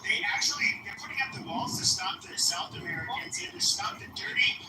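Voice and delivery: hammed-up Indian English caricature, needling the other guy; put-on Indian accent. Trolling a stranger online in a put-on Indian accent.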